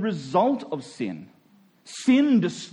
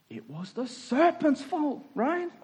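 Eve blaming serpent; 7 semitones higher, 5 dB quieter than usual. Acted. Eve shifting blame.

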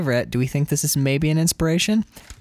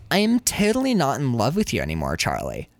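put-on valley girl line, dropping low at end; sulky valley girl voice; 3 semitones lower than usual. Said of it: "For the Valley Girl accent".

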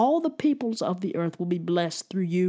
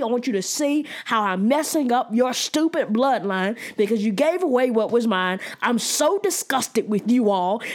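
spiteful Esau; 4 semitones higher than usual. Acted. Preacher voices spiteful Esau.

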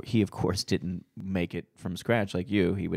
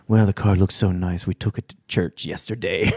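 imitating a Southern mechanic; thick Southern accent; 5 dB louder than usual. Mechanic confessing to dad about the car, Southern accent. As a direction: deliver the punchline in a Southern accent. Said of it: "in his thick Southern accent".

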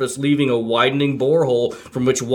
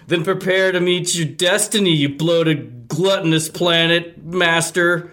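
sarcastic; 4 semitones higher, slower than usual. Acted.

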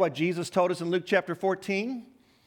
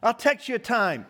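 mock-eager yes, higher than usual; glib agreement; 5 semitones higher than usual. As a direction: breezily agree to plans you won't keep. Acts out insincere eager agreement.

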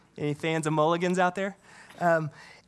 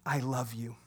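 softer and lower, an intimate I love you; tender confession; 5 semitones lower, 7 dB quieter than usual. Acted. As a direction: breathe it out as a humble confession.

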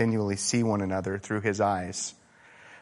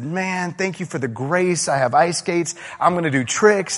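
mock thrilled kid; 7 semitones higher, 4 dB louder than usual. Kid's thrilled reaction in parable.

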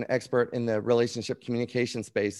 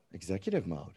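savouring the phrase; 7 semitones lower, 11 dB quieter than usual. Real, not acted.

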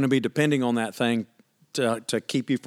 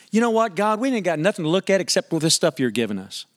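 high whiny mock complaint, rising on know; complaining Israelites; 4 semitones higher than usual. Israelites griping to God about the manna, mock whining. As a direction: sound like grumblers. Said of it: "Can you imagine?".

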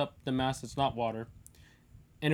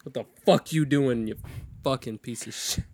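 swearing tirade. Real, not acted. Yells at someone off mic.

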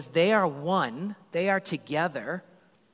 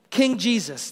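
raised, loud crowd cry; crowd shout; 5 semitones higher, 5 dB louder than usual. Retold or imitated. Preacher voicing the crowd hailing the king, loud. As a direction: call out his name like the crowd. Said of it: "they shout".

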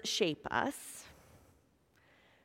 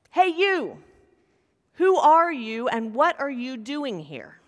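guard's yell. Acted. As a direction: bark the challenge down at a stranger. Guard challenges rabbi at night.

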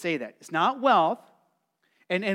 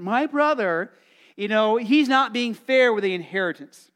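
put-on whiny child to parent; 3 semitones higher, 6 dB louder than usual. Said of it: "it sounds like actually going to a parent".

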